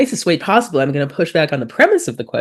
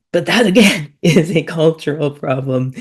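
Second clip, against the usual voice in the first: raised, louder voice with a laugh; chuckling emphasis; amused, laughing; 3 semitones higher, 4 dB louder than usual. Real, not acted. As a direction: laugh as you drive the point home. Laughing at repeating own point.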